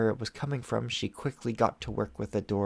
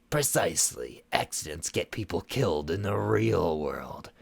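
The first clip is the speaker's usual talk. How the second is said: cold stern sorceress; 3 semitones lower than usual. Acted. Shadow Weaver lecturing.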